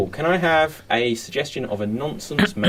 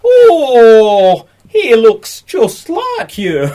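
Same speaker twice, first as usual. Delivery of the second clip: high nurse voice; 8 semitones higher, 9 dB louder, much slower than usual. Acted. Nurse character in improv scene.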